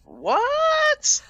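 high, loud shocked what; surprised. Real, not acted. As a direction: blurt it out in disbelief. Reacting to Family Guy film.

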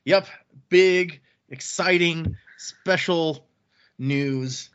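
deadpan, barely enthusiastic announcement; half-hearted hype. Pretend. Host teased into announcing, delivers it half-heartedly. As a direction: say the hype words like you're obliged to. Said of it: "That wasn't that enthusiastic".

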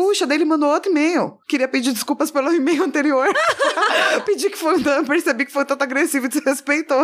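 hammy apology read through giggles; dramatic reading. Pretend. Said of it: "quer que eu leia com uma voz dramática".

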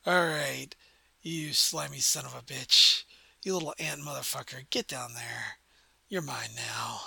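low, husky elf woman claiming a captive; deep-voiced elf. Elf woman claims her new captive, deep voice. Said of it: "in a voice that's a lot deeper".

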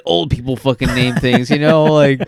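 loud exasperated rant; mock tirade at old people naming teams; half-acted loud complaint; retold rant. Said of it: "And I was like".

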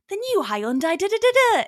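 high, rising mock-cheerful jingle; smiley ad voice. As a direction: sell it with a smile, climbing high at the end. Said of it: "you can't have a smile in your voice".

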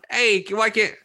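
lazy California surfer drawl, lightly done; a loose beach-bro California twang; surfer dude voice. Retold or imitated. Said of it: "he's talking like some California surf-, surfer dude".

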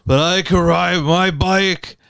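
slow, laboured phrases with breathy pauses; mock out-of-breath nasal voice; wheezy fat-guy caricature. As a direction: struggle through it, filling each pause with breathing. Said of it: "have every pause filled with".

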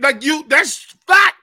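high, loud and slow insistence; shouting the fact at a friend in a food debate; emphatic shout. Real, not acted. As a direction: hammer the point home. Arguing oysters are gross.

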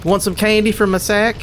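put-on high, sweet offering kid voice; sweet creepy coaxing. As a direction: coax him with a sweet little voice. Kid offers candy from sack.

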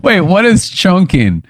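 high laughing what; laughing disbelief. Real, not acted. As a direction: laugh it out in confusion.

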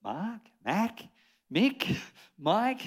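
mock confused Americans guessing the name; imitating Americans. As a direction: Mark mangled into Mac, Mick, Mike. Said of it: "people go".

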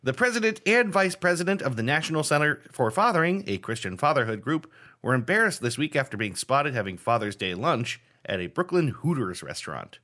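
measured, emphatic news-reader delivery; mock news read. Host reading a game story to player, newsreader style. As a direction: read it out like a headline item.

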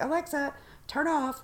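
firm request to Alexa; firm command. Retold or imitated. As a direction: tell Alexa to turn off. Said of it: "you have to say it right".

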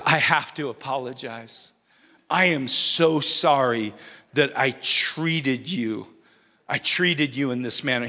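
lightly voiced sorry parrot, low and subdued; contrite parrot. Parrot apologizing to its owner after the freezer, mildly contrite.

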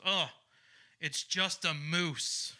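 slow, dismissive mock scoff. Man at the zoo sneering behind the comedian, scoffing. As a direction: scoff it out slowly, unimpressed. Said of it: "just scoffs and goes".

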